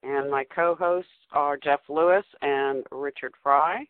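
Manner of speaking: over the top. Acted. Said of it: "you sound so, um, over the top there".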